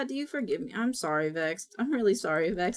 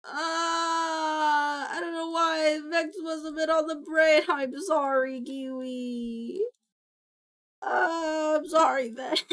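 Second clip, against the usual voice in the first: long whiny groan into apology; remorseful wail; 4 semitones higher than usual. Real, not acted. Streamer apologizing to Kiwi and Vex, remorseful wail. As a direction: draw the words out in embarrassed remorse. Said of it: "I feel so bad".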